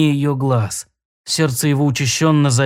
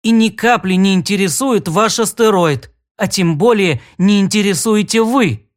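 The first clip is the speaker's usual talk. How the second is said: indignant; 4 semitones higher than usual. Acted. Glaring, hair flying, furious.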